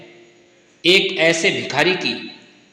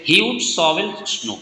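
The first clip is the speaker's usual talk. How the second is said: slow dictation; much slower than usual. Shown as a demonstration. Teacher dictates answer slowly.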